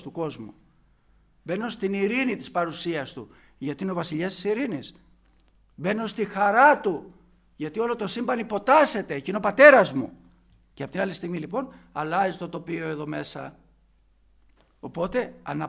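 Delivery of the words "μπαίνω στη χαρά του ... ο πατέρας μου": loud, building sermon climax; forceful preaching. Acted. Preacher proclaiming joy in the Father's rule, forceful and loud. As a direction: drive it home with swelling volume.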